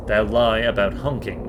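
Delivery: accusing. Acted. Accusing the tree.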